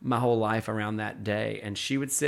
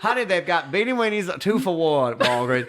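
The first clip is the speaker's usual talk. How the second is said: raised, emphatic grandmother gushing over small delights; grand, honeyed exclaiming that gradually settles; Swoopy chattering; 2 semitones higher, 3 dB louder than usual. Retold or imitated. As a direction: imitate a theatrical old lady sharing her favorites. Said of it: "That's what she said".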